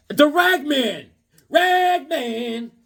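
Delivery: high, slow proclaiming of The Ragman; excited announcing. Real, not acted. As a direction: announce it like a hero entrance.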